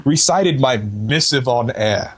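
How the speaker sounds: a hint of lofty period orator; lightly hammed-up formal letter reading; Renaissance painter. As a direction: read it as a mock-grand Renaissance gentleman. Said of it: "like, a seventeenth century Renaissance painter".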